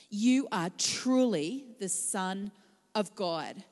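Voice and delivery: slow, hushed and reverent; in adoration. Acted. Disciples worshipping Jesus in the boat, adoring. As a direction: say it in awe, slowly. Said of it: "They said in adoration".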